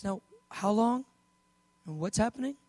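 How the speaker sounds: softly asked, composed questions; calm, not freaking out. Acted. Jesus asking the father about the boy, calm. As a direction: ask quietly, keeping calm. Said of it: "Jesus isn't freaking out".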